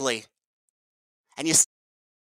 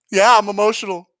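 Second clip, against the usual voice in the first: higher-pitched mock emotional outburst; 4 semitones higher, 3 dB louder than usual. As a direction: imitate an officer owning up to his feelings, mockingly. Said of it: "He was so emotional".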